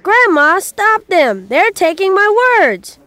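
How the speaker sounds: put-on high, loud child pleading for help; upset cry. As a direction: cry out to Grandma in alarm. Upset boy appeals to Grandma.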